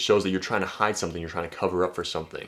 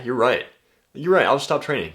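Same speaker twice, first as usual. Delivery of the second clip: mock giving in; 5 semitones higher, 5 dB louder than usual. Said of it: "this dude was just like".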